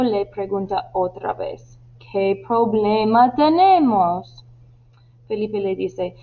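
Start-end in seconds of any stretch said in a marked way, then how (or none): 2.0-4.4 slow, annoyed question. Acted. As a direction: draw the question out in mild irritation. (pregunta lenta y algo molesta)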